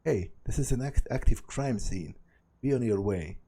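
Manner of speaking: put-on mild Brooklyn accent, waving someone off; lightly done Brooklyn accent. Cop shooing away a bystander, mild Brooklyn accent. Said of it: "yells in a, th-, in a thick Brooklyn accent".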